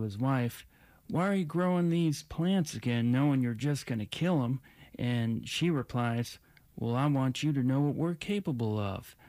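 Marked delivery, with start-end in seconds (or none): 1.1-4.6 put-on Southern accent. Flight attendant tells a farming joke over the intercom, Southern accent. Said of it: "She had a heavy Southern accent". 6.8-9.2 put-on wife's comeback with a light Southern accent. Farming wife answers her husband in a joke, Southern accent. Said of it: "She had a heavy Southern accent".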